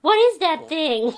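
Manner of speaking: put-on loud, high, slow kid's blurt; kid's shocked question. Kid gawking at wheelchair, loud high blurt. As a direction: blurt it out like a startled boy. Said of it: "and he went".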